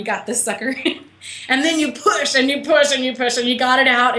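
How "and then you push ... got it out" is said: laughing. Real, not acted. Laughing through birth comparison.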